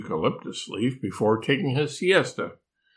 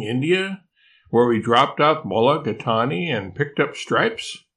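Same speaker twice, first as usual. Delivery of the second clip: higher, pleading and insistent; urgent koala voice; 3 semitones higher than usual. Acted. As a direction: rattle off the memories urgently. Yuki pleading memories, rising.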